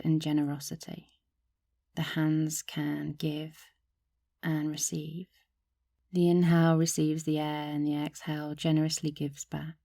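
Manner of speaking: calm meditation guide with long, restful pauses; unhurried, even-toned yoga teacher guiding a practice; guided meditation. Acted. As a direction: lead listeners gently through a body meditation. Leads a gratitude body meditation.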